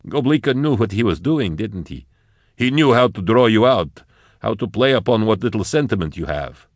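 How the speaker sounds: lightly voiced accuser; accusing figure.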